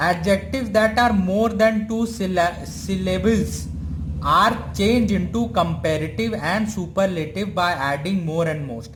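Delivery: reads each word slowly and evenly, as if for notes; slow dictation read. Acted. Teacher to students copying the rule, slow dictation. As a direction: let them write down every word.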